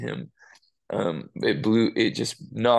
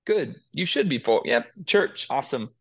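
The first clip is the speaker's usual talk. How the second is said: lukewarm response; 5 semitones higher than usual. Retold or imitated. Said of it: "It was just like".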